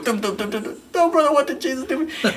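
very high, squeaky panicked reply; cornered bassist squeaking a desperate reply. Retold or imitated. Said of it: "I'm going".

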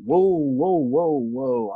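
a string of alarmed whoas leaping high; retold surprise, loud and high; startled whoa. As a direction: back off in sudden alarm, pitch jumping up. Startled by IRS credentials.

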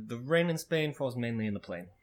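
understated Boston accent; just a light touch of Boston; subtle Boston accent. Shown as a demonstration. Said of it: "pretty much what the Boston accent sounds like".

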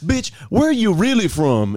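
high-pitched imitation of a challenge; mock confrontation. Retelling a man questioning a newcomer, mock confrontation. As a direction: press the question with hammed-up disbelief. Acting out street confrontation from video.

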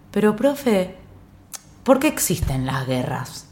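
a hint of a naive child, slowing down; innocent kid question. Girl asking music teacher about wars, lightly voiced child. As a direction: ask it like a sweet, earnest kid. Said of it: "le dije".

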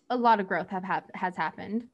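hiccuping mid-sentence; holding back hiccups; suppressing hiccups. Real, not acted. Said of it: "Sorry, hiccups".

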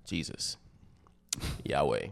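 whispered inhale, low exhale; breathy demo. Shown as a demonstration. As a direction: breathe the names out. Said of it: "they bring you breathing deep".

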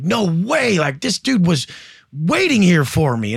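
like he's just seen a sign from God; amazed disbelief. Retold or imitated. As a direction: stranger walking off, marvelling to God, amazed. Guy walks off talking to God.

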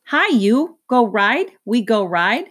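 put-on high, bright little-girl chatter; toddler voice. A narrator's reading. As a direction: coax like an eager two-year-old.

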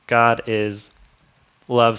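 "love" said loud and firm after a pause; pause, then land "love" hard; stress on love. Shown as a demonstration. Preacher to congregation, landing "love" loud.

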